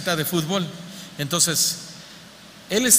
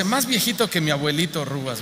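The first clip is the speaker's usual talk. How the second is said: laughing; 2 semitones lower than usual. Retold or imitated.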